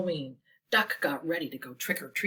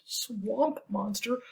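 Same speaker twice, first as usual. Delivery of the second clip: nervous question; much slower than usual. Acted. Goose gulped, scared question.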